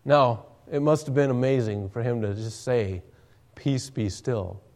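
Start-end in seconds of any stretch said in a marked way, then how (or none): 3.6-4.6 slow, much softer, near-breathed command; hushed command. Acted. Jesus stilling the sea, a slow hushed command. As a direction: let the words settle the water, slow and hushed.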